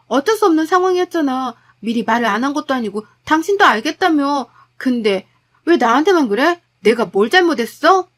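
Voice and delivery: wife hitting back at her husband; heated retort. Acted. (남편에게 따지는 아내, 격앙된 목소리)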